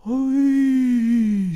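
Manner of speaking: put-on high, loud childish cry; children's chorus. A narrator's reading. Children answering the husband in a high, loud cry. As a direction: squeal it like a crowd of children.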